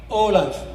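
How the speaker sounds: "Olaf" said with a rounded o, oh-laf; Aramaic pronunciation. Shown as a demonstration. Guide showing visitors the Aramaic letter name "Olaf". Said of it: "In Aramaic".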